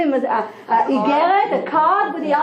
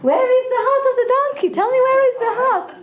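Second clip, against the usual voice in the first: much higher and faster, pressing hard; insistent lion; 11 semitones higher, much faster than usual. Acted. Lion presses the fox for the donkey's heart, high, fast and urgent. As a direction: fire the question again, urgent and shrill.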